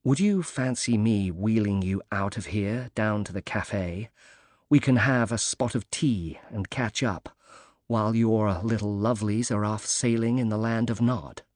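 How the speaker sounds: lightly put-on corny British accent; understated corny British accent, playful offer. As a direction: tease him with a hint of hammed British accent. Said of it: "affected a corny British accent".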